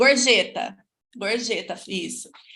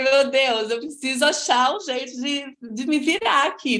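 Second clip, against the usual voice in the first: mock alarm; 3 semitones higher, 3 dB louder than usual. Acted worry at having to cope.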